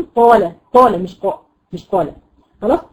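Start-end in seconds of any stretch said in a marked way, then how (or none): 0.0-1.0 قال said as if spelt طال; qaf mispronounced like Ta. Shown as a demonstration. Teacher contrasting the error with real qaf, Ta-like onset. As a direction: start قال with a heavy T. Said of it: "زي ما يكون قال".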